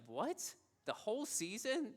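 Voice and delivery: mock disbelief, pitch climbing at the end; incredulous. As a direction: echo the interviewer's stunned question. Interviewer reacts in disbelief.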